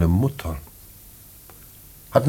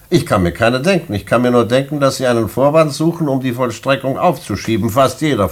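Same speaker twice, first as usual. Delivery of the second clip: stern rebuke; 5 semitones higher, 3 dB louder than usual. Acted. Director rejects prisoner's request.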